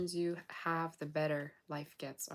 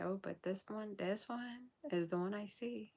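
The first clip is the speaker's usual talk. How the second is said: higher insistent voice; 4 semitones higher than usual. Retold or imitated. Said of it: "how I'm gonna say".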